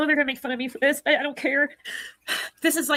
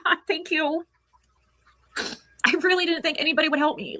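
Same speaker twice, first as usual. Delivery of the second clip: tearful thanks. Real, not acted. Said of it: "Those are fake tears".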